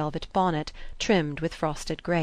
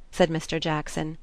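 usual speaking voice

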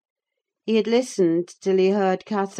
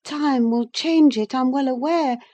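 put-on higher young woman's voice, earnest and confiding; Catherine's voice; 8 semitones higher, 5 dB louder than usual. Catherine confessing her love to Nelly, earnest. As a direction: let the secret spill out, half to herself.

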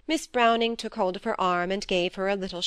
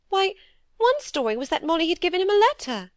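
higher, fretful little-sister voice; timid younger sister; 10 semitones higher, 4 dB louder, faster than usual. Acted. Phoebe fearfully confessing to her sister, higher anxious pleading.

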